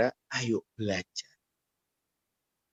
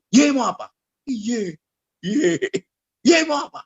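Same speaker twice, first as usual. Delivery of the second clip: challenging shout; 5 semitones higher than usual. Retold or imitated. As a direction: square up and yell him down. Biker challenges, voice rising.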